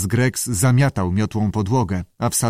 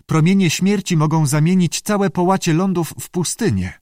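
high-pitched creature, mildly concerned; worried salamander; 8 semitones higher, 3 dB louder than usual. A narrator's reading. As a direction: pass on alarming news in a high voice. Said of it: "powiedział Andy zatroskany". (zatroskany, wysoki głos salamandry)

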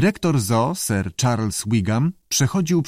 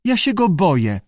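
high squawky mimic of a frightened visitor; blurted lizard voice; 8 semitones higher than usual. A narrator's reading. Lizard parrots a scared visitor, blurting. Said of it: "wyrzucił z siebie jaszczur".

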